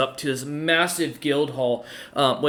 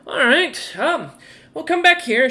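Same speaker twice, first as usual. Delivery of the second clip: higher clerk voice; banker verdict; 4 semitones higher, slower than usual. Acted. Banker telling James his ranking, then calling him back. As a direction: deliver the ranking, then wave them in. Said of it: "She nods and goes".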